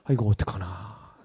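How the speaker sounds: low, hushed, slow self-talk; lightly acted dread under the breath; frightened worry. Recruit to himself as the commander swears, worried murmur. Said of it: "제가 겁이 나는 거예요".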